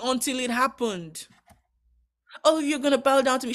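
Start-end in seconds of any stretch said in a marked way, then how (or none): 2.4-3.5 put-on higher, fast, bragging kid brother; boastful young Joseph. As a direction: crow it like a cocky favourite son. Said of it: "I imagine that's how Joseph was talking".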